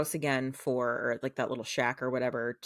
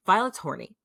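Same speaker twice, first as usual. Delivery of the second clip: louder and higher, delighted to tell it; gleeful reveal; 5 semitones higher, 5 dB louder than usual. Real, not acted. Telling the co-host the juicy news, gleeful and loud. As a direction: announce the juicy bit to the co-host with glee.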